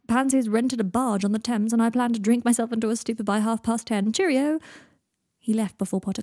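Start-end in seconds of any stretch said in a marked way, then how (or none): 0.1-4.1 airy boast on the way out; breezy, showy announcement of plans. Acted. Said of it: "breezing past him". 4.1-4.6 high, loud, airy goodbye; sing-out parting word; breezy. Acted. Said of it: "breezing past him".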